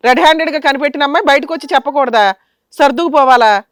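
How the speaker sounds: loud rhetorical challenge; indignant rebuke. Real, not acted. Host rebukes the couple. (ఆగ్రహంగా నిలదీస్తూ)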